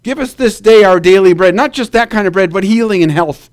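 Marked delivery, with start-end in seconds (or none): 0.0-1.5 congregational repeat. Shown as a demonstration. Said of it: "Can you say that with me?".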